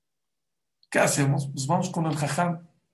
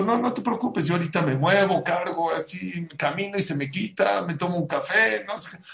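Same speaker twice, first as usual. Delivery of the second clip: mildly hurried, higher-pitched brushing off of worry; lightly acted protest, pitched up; insistent reassurance; 5 semitones higher than usual. Husband reassures his wife he'll be fine, insistent.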